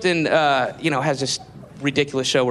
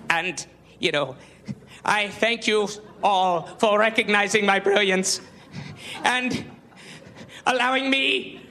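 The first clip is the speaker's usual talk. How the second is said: mock James Lipton; 4 semitones higher than usual. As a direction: puff yourself up like a vain host at the podium. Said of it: "and he's going".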